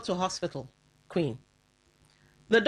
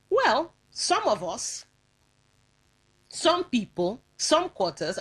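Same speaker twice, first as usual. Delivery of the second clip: each some stressed, first one slow and higher; 3 semitones higher, slower than usual. Shown as a demonstration. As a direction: lean on the word some every time. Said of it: "so emphasis on the word some".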